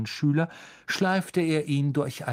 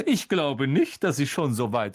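swooping, theatrical, self-satisfied lecture with a high chuckle; pompous celebrity mentor; 5 semitones higher than usual. Acted. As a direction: advise him condescendingly, savouring every phrase.

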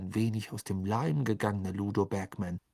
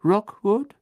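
surprised; 11 semitones higher, 8 dB louder than usual. A narrator's reading. Crouch asks in surprise.

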